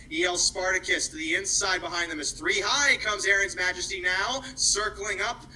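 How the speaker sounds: steady play-by-play harness race call. Acted. Track announcer calling the harness race live, play-by-play. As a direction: drive the call as the horses move up.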